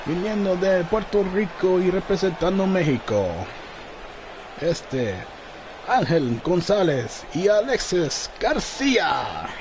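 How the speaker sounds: booming Spanish ring announcer; lucha libre announcer. Acted. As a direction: call out the names in Spanish, building to a shout. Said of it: "we got the personal ring announcer in the ring".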